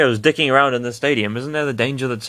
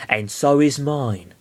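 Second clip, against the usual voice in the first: slow Mewtwo voice; 4 semitones higher, slower than usual. Shown as a demonstration. A voice from nowhere answering Lucario, slow. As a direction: drawl it out like a hidden Mewtwo. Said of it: "I imagine it's Mewtwo".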